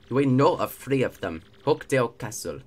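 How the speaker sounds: put-on made-up accent slipping into African; villain voice drifting into a rough African accent; accidental African accent. X-Naut reports known star locations, accidental African-sounding accent. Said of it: "This is just African".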